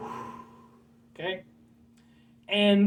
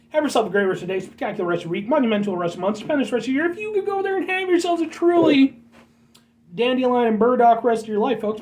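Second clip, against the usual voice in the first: building excitement; 3 semitones higher, faster than usual. Real, not acted. Vlogger hyping up his viewers in his sign-off, rising excitement.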